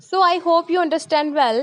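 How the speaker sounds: slow sign-off read; slow outro. Acted. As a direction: wrap up the video, slowly. Channel outro read slowly. (धीमा समापन)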